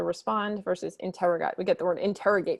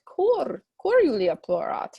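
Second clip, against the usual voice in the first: louder, anxious mother's question; worried mother; 6 semitones higher, 5 dB louder than usual. Acted. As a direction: plead like a worried mom. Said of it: "She says".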